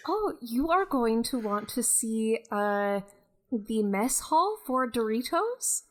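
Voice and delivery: light Scottish lilt; Scottish accent. Acted. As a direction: keep a mild Scottish accent. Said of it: "this is a very Scottish Beth".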